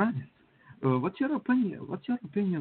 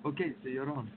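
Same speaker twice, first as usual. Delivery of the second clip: far from mic; 7 dB quieter than usual. Real, not acted. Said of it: "sounds like you're far away".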